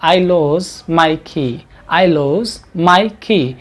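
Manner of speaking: "lose" very slow with a voiced z at the end; teacher modelling the verb "lose". Shown as a demonstration. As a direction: drawl "I lose my key", buzzing the z. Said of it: "जेड के sound के साथ".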